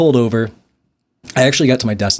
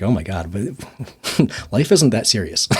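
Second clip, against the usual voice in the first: inner laughing voice; 3 dB quieter, slower than usual. Retold or imitated. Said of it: "I kinda laugh in my head".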